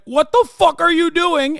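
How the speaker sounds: a husband yelling at the cop over his wife, hammed-up; imitating angry husband. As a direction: play the furious husband, not too fully. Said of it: "the husband went".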